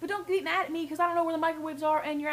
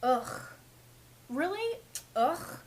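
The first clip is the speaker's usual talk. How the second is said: mock rude customer; much slower than usual. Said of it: "Not go".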